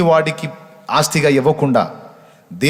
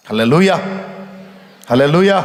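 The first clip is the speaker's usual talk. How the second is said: hallelujah shout; 3 semitones higher than usual. Real, not acted. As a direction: call it out to the church. Preacher calls out hallelujah.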